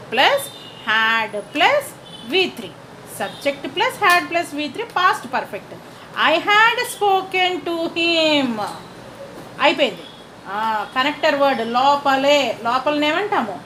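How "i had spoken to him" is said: very slow, word by word; slow dictation. Shown as a demonstration. Teacher to students, slow dictation. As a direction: spell it out slowly for students.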